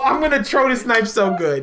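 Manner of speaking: "throw" turned into "tro"; dropped H. Acted. Player boasting in the misspelled way, H dropped. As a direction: play along, saying "throw" with T for TH. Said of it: "There's an H in throwing".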